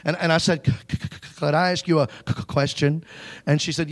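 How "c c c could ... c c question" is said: quiet stammering, almost unvoiced start; hushed nervous stutter. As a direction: stutter it out scared and soft. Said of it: "I was still really nervous".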